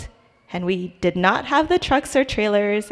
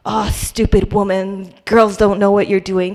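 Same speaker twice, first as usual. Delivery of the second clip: louder imitation of a rude big guy; loud, demeaning man; 5 dB louder than usual. Rude customer to woman at the counter, mock loud scorn. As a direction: put on a belittling customer, moderately loud. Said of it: "a very loud voice".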